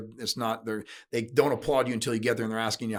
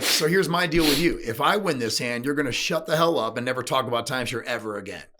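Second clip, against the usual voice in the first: louder, cocky retold challenge; mock bold dare; 4 dB louder than usual. Daring the timeshare friend at the card table, louder and cocky. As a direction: throw down the counter-bet.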